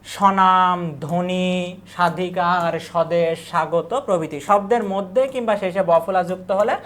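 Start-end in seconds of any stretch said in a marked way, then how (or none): 0.0-3.9 স্বদেশ as "shodesh", স্বাগত as "shagoto"; silent ব-ফলা. Shown as a demonstration. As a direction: say স্বনাম as "shonam" and ধ্বনি as "dhoni", no b. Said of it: "ব ফোলার কোনো উচ্চারণ হয়".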